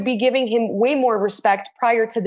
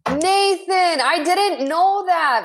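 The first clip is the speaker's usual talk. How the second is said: high, drawn-out delighted surprise; touched surprise; 6 semitones higher, much slower than usual. Real, not acted. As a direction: stretch it out, higher, truly touched. Touched that co-host watched her show.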